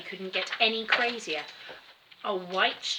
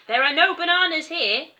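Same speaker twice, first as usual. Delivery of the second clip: loud and higher, calling up; shout; 9 semitones higher, 10 dB louder than usual. A narrator's reading. Terry shouting at the gorilla, loud and high. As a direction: yell it at the gorilla. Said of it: "shouted Terry".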